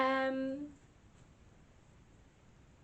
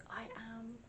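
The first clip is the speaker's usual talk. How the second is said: imitating ghost voice; 12 dB quieter than usual. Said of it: "and it says".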